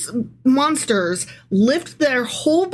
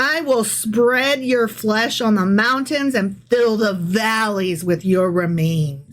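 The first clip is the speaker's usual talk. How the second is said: scripture reading; slower than usual. Acted. Reads scripture aloud.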